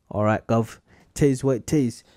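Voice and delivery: put-on a light, half-hearted British accent on all right Gov; mock British accent. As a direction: toss off a playful fake British accent. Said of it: "That was kind of a Australian accent".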